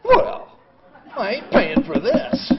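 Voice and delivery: loud, slow, high mock outburst; defiant refusal. Patient defying hospital staff about the bill, loud defiance. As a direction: dig in your heels and bark it.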